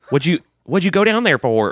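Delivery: a light imitation of a Southern sister; sister's Southern twang. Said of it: "she'll say shit ... what is this fucking accent".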